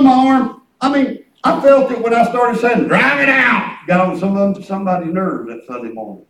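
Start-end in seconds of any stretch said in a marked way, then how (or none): 2.9-3.8 shouted rebuke; commanding shout. Retold or imitated. Preacher retelling his rebuke of the pain, shouted. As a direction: bark the command.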